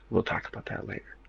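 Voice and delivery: hushed secretive aside; whisper. Real, not acted. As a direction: whisper it as a teaser. Aside after rant.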